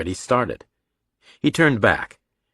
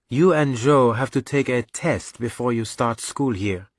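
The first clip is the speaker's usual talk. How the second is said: slightly higher voice for a mother; lightly put-on motherly character voice; lightly voiced mother; 4 semitones higher than usual. Mother telling her son about a school test, lightly voiced. Mother's dialogue in narrated story.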